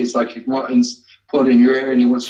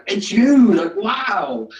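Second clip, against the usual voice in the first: surprised exclaim; 9 semitones higher, much slower than usual. Retold or imitated. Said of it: "She's just like".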